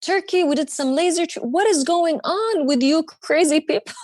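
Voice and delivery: high, frantic pleading with her parents; a hammed-up disbelieving rant at mom and dad; frantic outburst. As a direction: fire off the questions at a stunned family. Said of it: "I went crazy".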